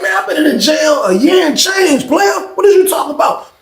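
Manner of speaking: heated shout. Retold or imitated. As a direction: shout it back at him in indignation. Retelling his own heated comeback.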